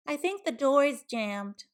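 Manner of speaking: a sly pig making excuses; piggy voice. A narrator's reading.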